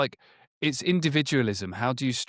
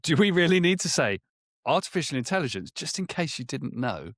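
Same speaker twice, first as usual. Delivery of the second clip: mock incredulous quote; 5 semitones higher than usual. Mocking people who still spell out artificial intelligence. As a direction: sneer at the long name. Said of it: "people are going".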